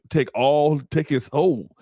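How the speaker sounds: a hint of a game villain claiming a soul; Shang Tsung. Commentator jokes she'll take his soul, as a lightly voiced villain. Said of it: "She like Shang Tsung from Mortal Kombat".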